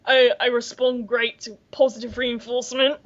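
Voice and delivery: mock-Cockney bulldog voiceover; Cockney accent. Bulldog voiceover listing its virtues, Cockney accent. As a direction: imitate a talking dog in Cockney. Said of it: "it had a Cockney accent".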